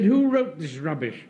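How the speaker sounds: flat restated outrage; repeated indignant demand. Real, not acted. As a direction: repeat it pointedly. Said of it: "Yes, I said".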